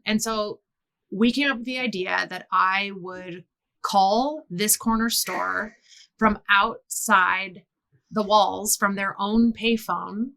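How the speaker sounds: normal talking voice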